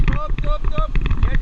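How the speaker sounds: high loud shouted command; shouting. Real, not acted. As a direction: bark the stop over water. Rafting guide calling over rapids.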